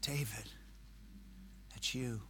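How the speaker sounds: quiet confrontation. Retold or imitated. Nathan gently confronting David. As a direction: say it softly to his face. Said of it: "I think Nathan said".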